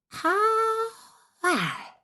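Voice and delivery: slow, half-whispered witch threat; menacing witch. Acted. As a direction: hiss the terms like a wicked hag. Witch voice held.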